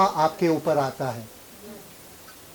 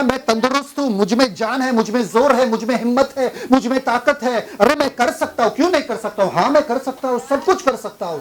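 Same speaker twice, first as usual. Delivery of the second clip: confident declaration; 4 semitones higher than usual. Shown as a demonstration. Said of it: "आपको बोलना".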